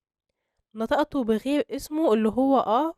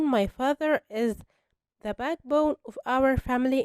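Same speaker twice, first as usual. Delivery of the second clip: slow example; much slower than usual. Shown as a demonstration. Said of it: "لما تقول".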